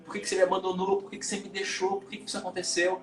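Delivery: mild retold childlike sob in the voice; imitating a crying child. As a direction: plead gently like an abandoned little kid. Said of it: "voltei pra essa criancinha chorando".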